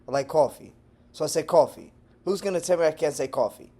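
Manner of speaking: "coffee" with a rounded aw vowel; every "coffee" said as "caw-fee"; New Yorker pronunciation. Shown as a demonstration. Texan defending his borrowed word, "coffee" as "caw-fee". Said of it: "something that a New Yorker says".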